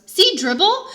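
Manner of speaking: put-on high, loud toddler voice. A narrator's reading. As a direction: show it off like a proud toddler.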